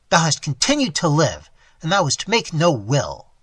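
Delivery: cold reply. Acted. Robber's cold answer.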